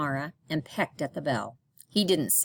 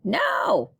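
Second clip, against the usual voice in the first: higher, louder parrot cry; 5 semitones higher, 4 dB louder than usual. Acted. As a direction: blurt it like a parrot. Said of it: "cried Paco".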